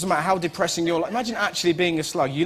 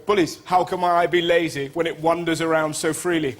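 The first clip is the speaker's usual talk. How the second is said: mock grand verse. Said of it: "I had to go up to him and go".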